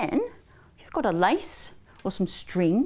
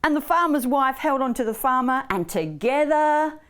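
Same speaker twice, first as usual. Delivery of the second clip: put-on children's storytelling; 4 semitones higher, 3 dB louder than usual. A narrator's reading.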